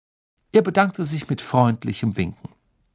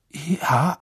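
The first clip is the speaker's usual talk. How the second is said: breathed; 4 semitones higher than usual. A narrator's reading. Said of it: "hauchte Ron".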